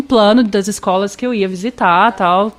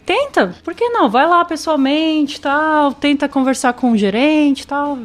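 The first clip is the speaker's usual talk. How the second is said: lightly voiced, higher encouraging counselor; counselor's advice; 4 semitones higher, slower than usual. Counselor urging her to job-hunt, mildly higher encouraging voice. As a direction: nudge her on like an upbeat advisor. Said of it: "ele falou".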